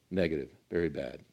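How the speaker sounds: dark and low. Shown as a demonstration. Preacher contrasts good and bad emotions.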